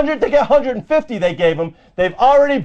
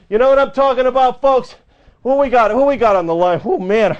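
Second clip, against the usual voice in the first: breathless from ranting; winded, catching breath between lines. Real, not acted. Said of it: "I'm getting a little out of breath".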